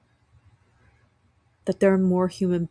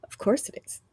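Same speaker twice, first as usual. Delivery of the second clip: whispered; 5 semitones higher, 4 dB quieter than usual. Retold or imitated. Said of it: "And I'm like".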